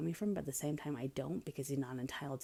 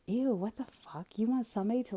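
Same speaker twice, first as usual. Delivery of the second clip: disgusted ew; 7 semitones higher, 5 dB louder than usual. Retold or imitated. Retelling her reply to a rude texter, disgusted. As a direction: recoil in disgust. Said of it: "And I was like".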